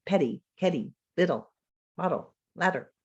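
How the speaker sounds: Ladder, bottle, little with a quick tapped middle; tongue flicks up and down in the middle; flap sound. Shown as a demonstration. Teacher modelling the English flap for students. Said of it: "That is a flap sound".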